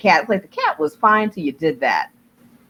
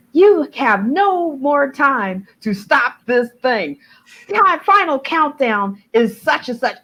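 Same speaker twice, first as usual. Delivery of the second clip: mock ship computer voice; 7 semitones higher, slower than usual. Voicing the countdown.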